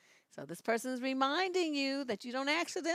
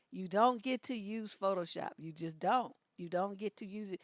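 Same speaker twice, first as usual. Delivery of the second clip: ordinary delivery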